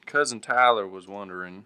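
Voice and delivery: slow, polite letter read while typing; slow typing dictation. Shown as a demonstration. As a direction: sign off sweetly. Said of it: "Here, I'll do it right now".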